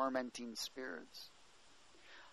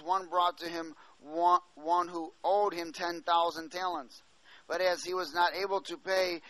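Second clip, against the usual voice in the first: steady, raised reading voice; scripture reading. Acted. Preacher reading Matthew eighteen to congregation, raised reading voice. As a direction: read the parable out to the congregation.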